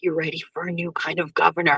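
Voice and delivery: muttered under breath. Retelling what a woman leaning in at the side said, under her breath. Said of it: "Under her breath".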